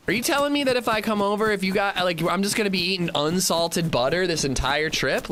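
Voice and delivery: mock the complaining friend in a high whine; whiny friend mock. Friend complaining about unsalted butter, in a high mocking whine. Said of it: "he's like".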